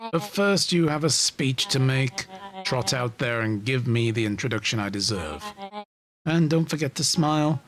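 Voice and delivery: smug commanding villain. Acted. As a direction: order him about smugly.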